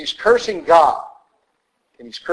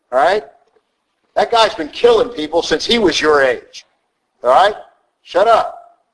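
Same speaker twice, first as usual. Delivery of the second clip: King Saul; 3 semitones higher than usual. Retold or imitated. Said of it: "King Saul ... walks over".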